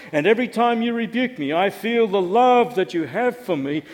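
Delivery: put-on grandiose, gushing parody of a grateful child; over-formal mock adoration; mock reverent praise. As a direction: lay on the flowery praise, building from hushed to loud. Mock speech of an impossibly grateful child.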